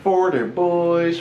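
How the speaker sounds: very slow, stretched Delco accent; South Jersey accent. Shown as a demonstration. Joining in on the Delco impressions, exaggerated South Jersey accent. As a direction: drag out each vowel in South Jersey twang. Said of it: "what about a South Jersey accent".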